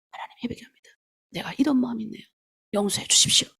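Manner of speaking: hushed, breathy prayer of repentance to God; whispered confession. Shown as a demonstration. A believer whispering repentance to God in the moment, hushed.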